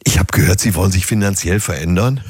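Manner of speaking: lightly mischievous waiter's quip; mildly sly server joke. Acted. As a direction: deliver it with a touch of roguish teasing. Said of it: "dann kommt so ganz schelmisch".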